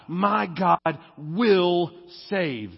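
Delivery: very slow, each word weighted; slow proclamation. Shown as a demonstration. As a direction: declare it slowly and solemnly. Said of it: "It's my God".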